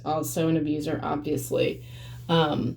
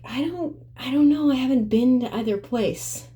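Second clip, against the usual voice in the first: startled high reply; 6 semitones higher than usual. Retold or imitated. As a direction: voice jumping up high, flustered. Retold argument, her own reply.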